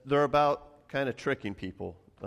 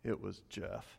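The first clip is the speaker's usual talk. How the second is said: put-on crushed boy; 4 semitones lower, 11 dB quieter than usual. Son crushed by the prank.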